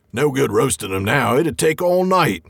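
lightly voiced troll. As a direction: play the sly voice mimicking a troll. Troll voice in read story.

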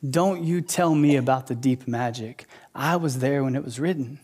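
understated rebuke from a commanding lion; Aslan. Retold or imitated. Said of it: "he looks at her and he says".

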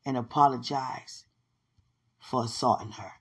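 low, soft, measured instruction; God's voice. Retold or imitated. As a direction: voice God quietly giving firm orders. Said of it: "God said".

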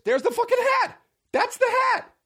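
high squeal of discovery; excited squeal. Real, not acted. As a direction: shriek it like you found treasure. Finds the hat online.

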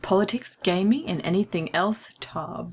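clipped wartime posh; mock upper-class British intro. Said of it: "That's me putting my posh voice on".

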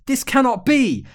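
high, loud disbelief; hammed-up wicked witch, cut off mid-cry; witch's outraged cry. A narrator's reading. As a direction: wail like a villain going down. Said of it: "the Black Witch of the North cried".

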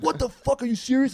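high-pitched outraged disbelief; imitated mad crowd. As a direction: imitate angry listeners who can't believe it. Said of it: "people were so mad".

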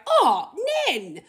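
put-on high, sympathetic kid's call; child voice. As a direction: say it like a small child comforting. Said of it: "Even the kids were like".

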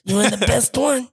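put-on Guido accent. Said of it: "my Guido voice".

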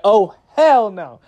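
slow, drawn-out indignant refusal; pissed-off mom. Retold or imitated. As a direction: drag it out like a mother who's had enough. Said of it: "she's a pissed off mom".

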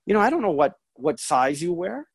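re-enacted protest, high then falling; lightly acted hedging to mom; hesitant son. Son protests he doesn't know her size, hesitant. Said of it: "And I go".

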